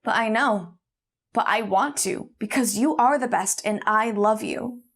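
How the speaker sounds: emphatic retold declaration, held well short of shouting; retold yell back. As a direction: insist firmly, as if calling back. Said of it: "he yelled back".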